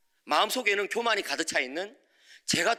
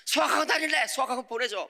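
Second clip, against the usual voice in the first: put-on high, excited boy voice; son's eager request; 8 semitones higher than usual. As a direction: ask it like an eager kid. Son asking for academy.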